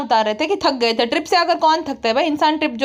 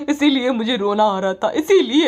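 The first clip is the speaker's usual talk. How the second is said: lower, fed-up complaining wife; lightly lowered sulky wife; grumbling wife; 4 semitones lower than usual. Retold or imitated. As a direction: moan about the in-laws in a lowered voice. Wife's rant continues.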